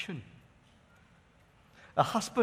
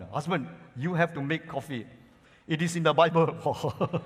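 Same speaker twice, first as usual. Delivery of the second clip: decided; 3 dB louder than usual. Retold or imitated. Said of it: "decidedly said".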